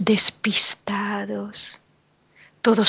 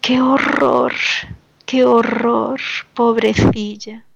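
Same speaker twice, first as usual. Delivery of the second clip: retold dismay.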